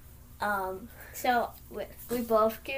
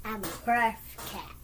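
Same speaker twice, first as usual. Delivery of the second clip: lightly purred cat voice; purring cat voice; 2 semitones lower, 5 dB quieter than usual. Acted. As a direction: purr like a lazy cat. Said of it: "trying to purr".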